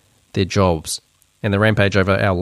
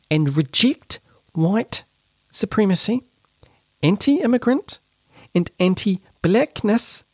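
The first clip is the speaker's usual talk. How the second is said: much higher, slow mocking read of the memo; higher-pitched voice; 8 semitones higher, slower than usual. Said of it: "a higher-pitched voice".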